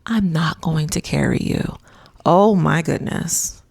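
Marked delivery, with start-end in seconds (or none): 0.0-1.8 lightly imitated gentle refusal; mild, calm let-down; said gently. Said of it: "Chris says gently".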